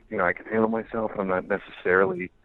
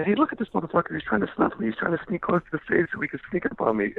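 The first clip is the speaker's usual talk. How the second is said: calling out from stage; 10 semitones higher than usual. Retold or imitated.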